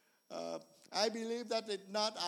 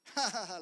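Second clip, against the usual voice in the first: snake laughing. Retold or imitated.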